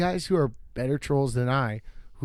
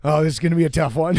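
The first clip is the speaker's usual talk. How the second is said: fast, louder mock worry; quick, louder imitation of himself worrying; nervous inner thought; 2 semitones higher, 6 dB louder, much faster than usual. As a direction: rush it out like a scared newbie. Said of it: "And I was like".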